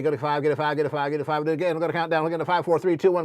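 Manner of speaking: fast auctioneer patter. Pretend. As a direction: rattle it off like an auctioneer. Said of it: "get my auctioneer voice ready".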